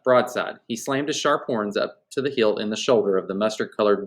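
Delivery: lively storybook reading; story narration. A narrator's reading. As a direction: read the adventure aloud with animation. Reads a novel aloud.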